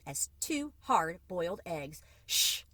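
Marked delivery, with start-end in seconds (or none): 2.3-2.6 a quick hushing shh; Mama hushes Papa with a shh. A narrator's reading. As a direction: hush him sharply. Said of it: "said Mama with a wave".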